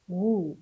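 "غو" as a lone long ghuu; ghayn with damma. Shown as a demonstration. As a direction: sound out "غو" with a held oo. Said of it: "ونطقه مع الضمة". (نطق "غو" بغين مضمومة ممدودة)

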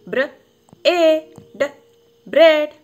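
ബ്രെഡ് called out loud and high; emphatic model word. Shown as a demonstration. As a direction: proclaim ബ്രെഡ് to the class. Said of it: "ഇങ്ങനെയാണ്". (ബ്രെഡ് ഉറക്കെ ഊന്നി പറയുന്നു)

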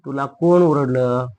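stretched word-by-word question; slow dictation. Shown as a demonstration. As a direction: repeat it slowly for pupils copying. Teacher repeats slowly for dictation. (सावकाश शब्द लांबवून)

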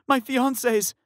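high, loud incredulous cry; outraged shout. Acted. Fiancé outraged at the manager, shouting. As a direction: throw the word back in anger. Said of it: "Tyler shouted".

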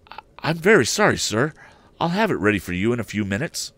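lightly voiced fussy hotel keeper; flustered proprietor. Hotel proprietor apologizes to the departing guest, hurried.

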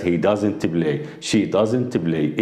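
He doesn't play drawn out word by word; very slow model sentence. Shown as a demonstration. Teacher modelling the correct negative for students, very slow. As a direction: spell out doesn't play very slowly. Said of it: "ولا play بس".

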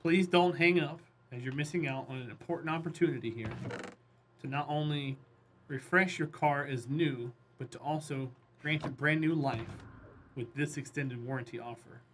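scripted telemarketer pitch. Pretend. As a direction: rattle off a sales script. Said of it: "I sound like a telemarketer".

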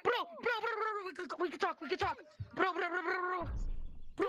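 yelling. Real, not acted. Yelling over a game fight.

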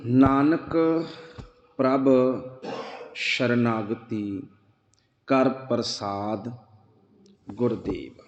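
slow, drawn-out verse reading, fading low; scripture recitation. Acted. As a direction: recite each word slowly. (ਧੀਮੀ ਗੁਰਬਾਣੀ ਪਾਠ)

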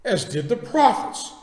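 measured, dramatic Bible reading with long pauses; solemn pulpit reading; scripture reading. Acted. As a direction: read the passage deliberately, giving the quoted speakers weight. Reads scripture aloud.

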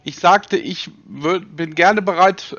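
over-clear for a poor German speaker; slow and emphatic. Real, not acted. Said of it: "Sie verstehen irgendwie wirklich fürchterlich schlecht Deutsch".

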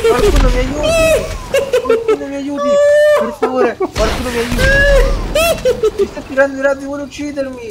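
high desperate cries for help; panicked screaming. Acted. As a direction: scream for help while fleeing. Screaming for help, chased by alien.

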